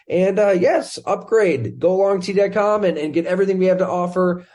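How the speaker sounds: loud, upbeat plug for the show; podcast promo read. Acted. Host thanking listeners and plugging the show, promo read. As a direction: punch out the sponsor thanks and sign-off.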